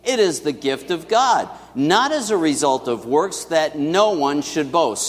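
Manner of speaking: slow, measured scripture reading; slow unison verse; congregational recitation. Shown as a demonstration. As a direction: read it aloud together, unhurried. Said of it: "let's say this together".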